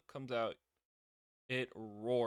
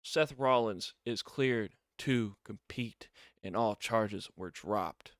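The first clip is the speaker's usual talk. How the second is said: slow, louder announcer read; official announcement; 8 dB louder, slower than usual. Retold or imitated. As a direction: proclaim it to the arena. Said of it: "He goes".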